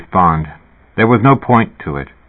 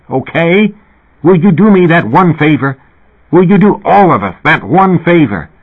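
higher, forceful scolding; exasperated rant; 4 semitones higher than usual. Acted. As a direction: berate him, fed up. Heated rant at Fat.

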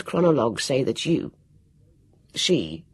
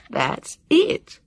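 higher, eager cry; excited shout; 13 semitones higher than usual. A narrator's reading. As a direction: burst out with the idea. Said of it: "he shouted".

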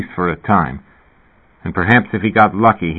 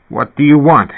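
higher, louder anxious demand; alarmed question; 6 semitones higher, 5 dB louder than usual. A narrator's reading. Sleeper to the deity, alarmed. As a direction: ask it pitched up, on edge.

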